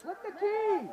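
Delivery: urgent shout. Real, not acted. Repeated order.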